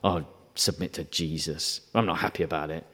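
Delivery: low, sulky grumble of a reluctant believer; mock grudging mutter; begrudging. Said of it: "It's not a begrudging thing".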